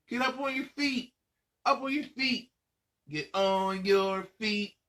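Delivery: put-on high, bright rallying call to the kids; excited call to stand. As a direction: pump them up to jump to their feet. Host rouses kids to stand.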